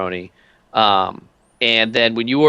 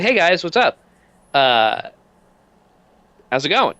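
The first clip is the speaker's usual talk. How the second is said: lightly acted casual hello, higher at the start; friendly greeting; 6 semitones higher than usual. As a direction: greet the guys with a lifted, easy hello. Character greets friends at the table.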